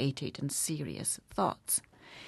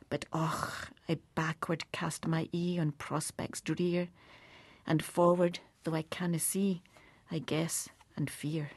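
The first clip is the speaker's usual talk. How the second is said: poem recitation. Acted. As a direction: fade into a whispered dread at the end. Reciting To a Mouse ending.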